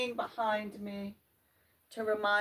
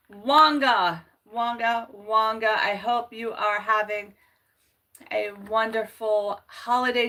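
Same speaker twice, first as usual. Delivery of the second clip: louder, sing-song repeated greeting; calling out; 7 dB louder than usual. Real, not acted. Calling out a greeting to a viewer on the stream. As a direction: call the name out in greeting.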